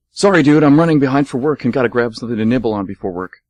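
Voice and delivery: rushed and loud, talking fast; hurried. Acted. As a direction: blurt it out in a rush, late for work. Dave rushing, late for work.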